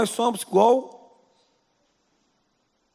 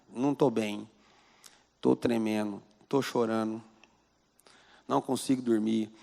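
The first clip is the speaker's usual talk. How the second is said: low, subdued imitation of a distressed patient; retold tearful confession; 5 semitones lower than usual. Trembling secretary tells doctor her troubles, understated distress. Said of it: "Tremendo e chorando".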